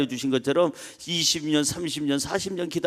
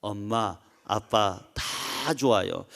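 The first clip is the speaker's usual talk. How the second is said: put-on grown child answering; 9 semitones lower, 7 dB quieter, much slower than usual. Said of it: "머리가 이제 큰 녀석은 이렇게 대답합니다".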